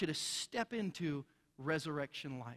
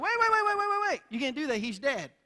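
high, loud rapid-fire protest; panicked objection; 8 semitones higher, 7 dB louder than usual. Retold or imitated. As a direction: cut in frantically as Martha, hammed up. Martha objects to opening tomb.

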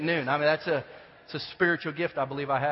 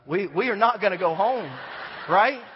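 firm dad; 5 semitones higher, 7 dB louder than usual. Retold or imitated. Dad firmly refusing to leave.

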